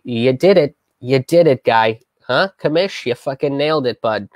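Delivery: mock cheer for the detective; sarcastic praise. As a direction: needle him with fake applause. Mocking the detective's questions.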